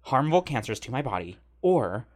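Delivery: lightly imitated flamboyant, slightly feminine man; a hint of flamboyance, objecting point by point. Passenger explaining his two options to the cop, lightly flamboyant. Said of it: "He's a bit flamboyant, a little feminine".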